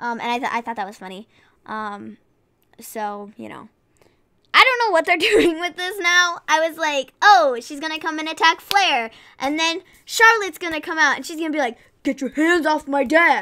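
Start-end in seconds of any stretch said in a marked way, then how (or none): 12.0-13.4 exaggerated, really deep, dropped voice. Imagining Charlotte coming out to stop an attack on Flair, in a really deep Charlotte Flair voice. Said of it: "That was like a really deep Charlotte Flair voice".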